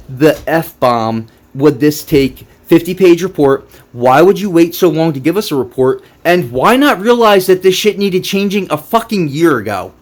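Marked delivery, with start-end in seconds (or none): 4.5-9.9 heated angry rant, pitched up; exasperated outburst. Real, not acted. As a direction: really let loose at the devs. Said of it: "I'm gonna go off in this video".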